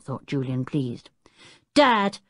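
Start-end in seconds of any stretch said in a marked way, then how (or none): 1.8-2.2 put-on high, loud child's protest; drawn-out, raised-voice scolding; indignant cry. A narrator's reading. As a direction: cry out to an angry father. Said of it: "cried Tinker".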